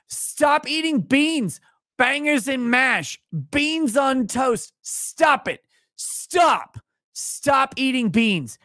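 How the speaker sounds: very high, drawn-out mock scolding; mock fat-shaming tirade. Streamer orders British viewer off beans, hammed-up scolding. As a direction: stretch each command way up high, hammed-up outrage. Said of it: "could I get a drunk fat shaming".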